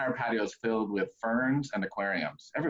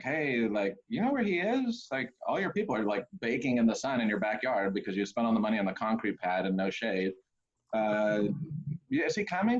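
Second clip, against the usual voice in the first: pitched way up, exasperated asking. Retold or imitated. Pastor confronting bride, bride voice.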